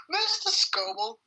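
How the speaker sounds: high, slow, hammy call; hammy butler. Acted. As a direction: announce it like a servant. Hammy line read.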